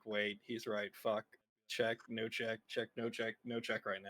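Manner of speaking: quiet frantic self-talk, checking and unchecking; inner voice. Acted. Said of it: "in her head, be like".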